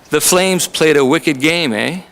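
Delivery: slow, easygoing Canadian hockey chat; casual Canadian. Pretend. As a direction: drop it casually like a Canadian fan. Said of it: "come up to me casually and say".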